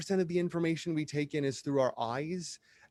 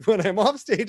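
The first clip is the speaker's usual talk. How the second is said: loud contrast; 7 semitones higher, 9 dB louder than usual. Real, not acted. Contrast with on stage, laughing.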